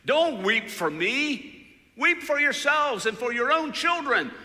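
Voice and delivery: high, loud call, slowed on the commands; shouted warning. Retold or imitated. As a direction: shout it out straight ahead to the crowd. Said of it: "just shouts out".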